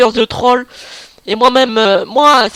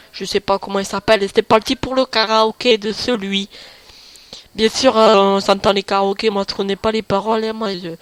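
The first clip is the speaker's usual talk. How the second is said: lightly lowered, processed voice; altered deep voice; 3 semitones lower, 5 dB quieter than usual. Acted. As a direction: talk through a voice changer, a bit deeper. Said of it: "eh ben, il y aura une voix trafiquée".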